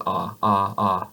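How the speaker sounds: "Ah" with the tongue flat and the mouth wide open. Shown as a demonstration. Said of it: "maybe saying".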